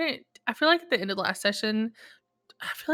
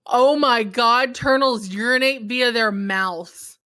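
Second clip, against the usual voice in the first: excited; 3 semitones higher, 7 dB louder, slower than usual. Real, not acted. Shocked turtle fact reveal.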